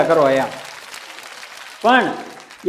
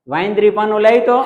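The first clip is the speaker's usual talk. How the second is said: loud call from the doorway; shouted request for the wrench; 3 semitones higher, 5 dB louder than usual. Retold or imitated. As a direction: call out to the wife inside, loud. Husband calls out to wife.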